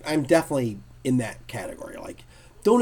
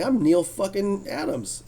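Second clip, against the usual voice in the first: proud boast; 7 semitones higher, slower than usual. Retold or imitated. Neil voiced proudly, slow.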